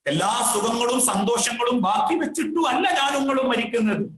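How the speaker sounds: fervent sermon cry on അല്ല; emphatic preaching. Acted. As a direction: drive the repeat home to the congregation. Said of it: "repeated with rising force".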